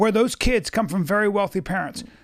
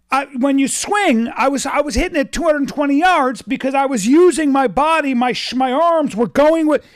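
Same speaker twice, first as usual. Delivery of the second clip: retold excited father; 3 semitones higher, 4 dB louder than usual. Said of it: "he's going through the whole process".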